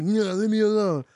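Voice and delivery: slurred imitation of a drunk's protest; mumbling drunk. Drunk being lifted off the toilet, slurred mock protest.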